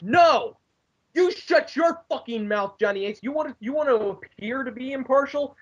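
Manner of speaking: a fan yelling his anger at the boss; ranting tirade. Retold or imitated. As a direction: let the outrage pour out. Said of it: "Wow, somebody's a mark".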